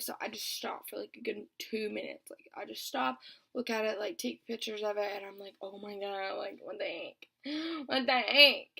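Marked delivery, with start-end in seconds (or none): 5.6-8.7 shocked gasp. Retold or imitated. Shocked at her bloody finger.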